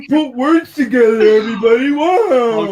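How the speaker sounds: hammed-up applause for a friend's clumsy words; teasing congratulation; mock praise. Mocking praise of Jay.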